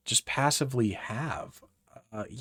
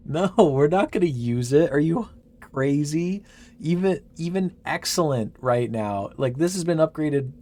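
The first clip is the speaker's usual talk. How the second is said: worked-up refusal; 5 semitones higher, 6 dB louder than usual. Real, not acted.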